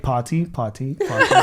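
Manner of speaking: imitating a rapper. Cousin imitates the rapper's forgotten-word rap, repeating potty. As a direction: repeat potty, the last one squeaked. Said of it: "He's like".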